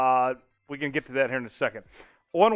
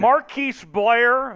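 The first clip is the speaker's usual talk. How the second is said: excited; 6 semitones higher, 6 dB louder, much slower than usual. Real, not acted. Live call of a near interception.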